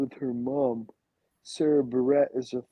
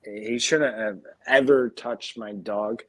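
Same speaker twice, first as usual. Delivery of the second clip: slurring a little, tipsy; 3 semitones lower than usual. Real, not acted. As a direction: talk like a few drinks in. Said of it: "I'm pretty drunk".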